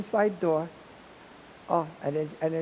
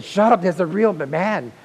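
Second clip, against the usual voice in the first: amazed disbelief; 2 semitones higher, 8 dB louder than usual. Retold or imitated. Teller answers Joe's news loudly in amazed disbelief. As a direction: blurt it in delighted shock.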